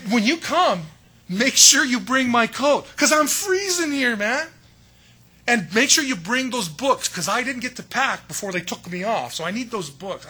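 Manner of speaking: high, loud San Diego surfer-dude voice for Paul; Paul as a laid-back San Diego surfer, hammed up. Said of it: "I'm from San Diego".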